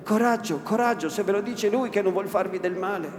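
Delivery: put-on coaxing old woman. Old woman urges Lucia to take heart, high and coaxing. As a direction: wheedle her to take courage.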